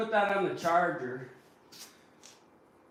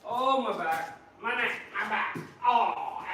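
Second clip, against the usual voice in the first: mock complaining; 3 semitones higher than usual. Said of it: "just complaining about my owies".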